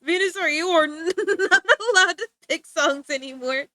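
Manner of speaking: loud, laughing decree; playful laughing verdict; laughing mock ban. Real, not acted. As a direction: banish him through giggles. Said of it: "Matter of fact".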